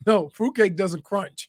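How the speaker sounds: chewing while talking; talking through a mouthful; mouth full. Real, not acted. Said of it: "Are you chewing gum?".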